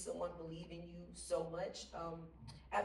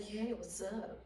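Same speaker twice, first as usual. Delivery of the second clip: imitating Paul again; 3 semitones higher, slower than usual. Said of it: "That's a really good imitation".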